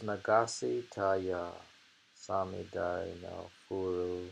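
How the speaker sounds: slow, careful reading of the original; Japanese recitation. Acted. Reading the haiku in Japanese, slow and careful.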